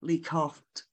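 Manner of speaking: measured, deliberate spoken-word delivery; poetry recital. Acted. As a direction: read the poem phrase by phrase, letting pauses hang. Recites own poem to audience.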